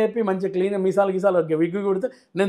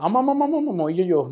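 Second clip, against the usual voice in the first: surprised exclamation. Real, not acted. Startled at dubbing question.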